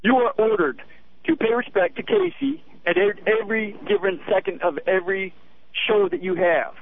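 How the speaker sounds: a hint of drill sergeant; stern command. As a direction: give orders like a mild sergeant. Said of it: "barking, stern command".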